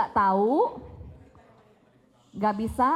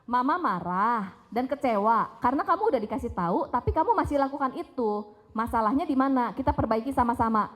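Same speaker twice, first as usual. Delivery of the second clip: mother calmly naming her disappointment; calm assertive mother; faster than usual. Shown as a demonstration. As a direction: call the kid close and talk it through kindly. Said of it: "Tapi bisa dong bilang gini".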